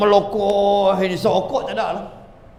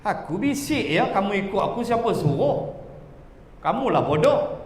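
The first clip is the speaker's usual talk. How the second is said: Satan's sly hushed taunt; 6 dB quieter than usual. Acted. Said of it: "Li tu aku, setan lah".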